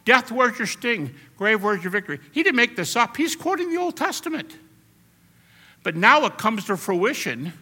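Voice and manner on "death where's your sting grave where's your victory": defiant taunt. Retold or imitated. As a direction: fling the question in death's face. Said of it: "That's the way Paul's talking".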